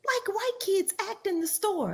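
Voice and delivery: high-pitched imitation of the aunt; mock the aunt scolding the kid, voice up high. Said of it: "She literally goes".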